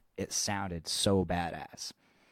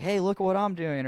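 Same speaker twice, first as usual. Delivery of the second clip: put-on high-pitched bratty kid voice, a bit louder; annoying little kid; 12 semitones higher, 4 dB louder than usual. Imitating the drummer's nephew begging the band for attention, high and bratty. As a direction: mimic the pesky nephew whining for attention. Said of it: "and he's like".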